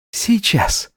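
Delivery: the maid pretending to be the bride; timid maid.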